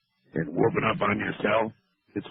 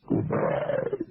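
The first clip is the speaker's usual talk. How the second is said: whispered goodbye; 3 semitones higher, 5 dB quieter than usual. Acted. Host whispers goodbye, laughs.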